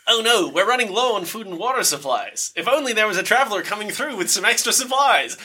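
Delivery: high pinched nasal call. Acted. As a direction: call out through the nose, high. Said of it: "speak in the nasal voice that we just heard".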